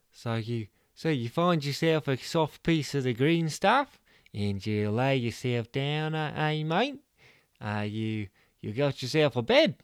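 lightly voiced TV presenter; Mudguard presenting. Mudguard narrates to camera.

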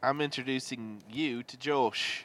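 slow, mock British introduction; put-on British accent. Improviser introduces a friend, put-on British accent. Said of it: "And we'll be British".

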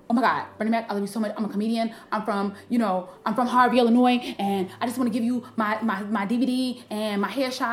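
mildly nervous retold fan pitch. Young comedian introducing herself to Bernie Mac, nervous. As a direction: stumble lightly over your introduction. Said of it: "Did you sound this nervous that you sound right now?".

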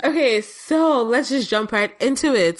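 slow, high radio host voice. Pretend. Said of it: "my radio host voice".

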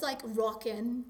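mock British accent, slow; a clumsy try at British; bad British accent. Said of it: "that was my really bad British accent".

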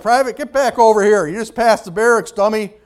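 half-laughing bark to come back; amused drill sergeant. Retold or imitated. Drill sergeant calling back a private who ran past, loud. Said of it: "by now the drill sergeant's laughing".

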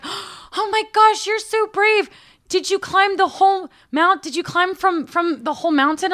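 imitated awestruck old lady, high and loud; high-pitched, amazed little-old-lady impression. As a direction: gush in a tiny, high voice. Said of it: "she has this high-pitched little voice".

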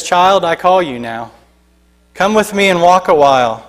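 calm invitation from a loving father; a hint of a tender father; soft and reflective. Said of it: "his soft yet reflectful".

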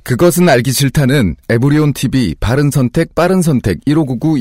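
sponsor announcement read. Shown as a demonstration. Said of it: "자, 컷!".

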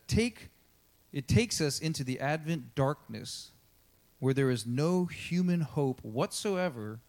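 slow, emphatic reading aloud with pauses between phrases; solemn quote reading. Acted. Preacher reading an Advent book quote, slow and solemn. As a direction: read it weightily, phrase by phrase.

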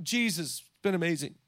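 hushed, falsely pious voice; a quiet mock-pious hush; fake spiritual. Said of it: "try and act like all spiritual".

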